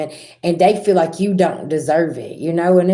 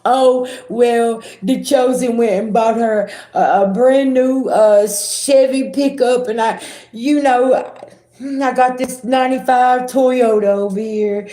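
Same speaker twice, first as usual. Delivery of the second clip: high, put-on whiny complaining voice; hammed-up jealous whine about a truck; mock whining; 5 semitones higher than usual. Mocking a jealous acquaintance, high whiny voice. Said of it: "whining in the background and crying".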